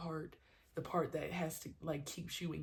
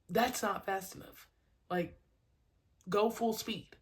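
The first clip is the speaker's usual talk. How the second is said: louder, pushing coaching call; demanding coach; 4 semitones higher, 5 dB louder than usual. Retold or imitated. Coach pushing a slacking kid, demanding. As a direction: drive the kid to go harder.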